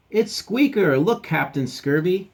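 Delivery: high, loud, delighted discovery; excited dog. Acted. Dog telling the captain its toy returned, high excited call.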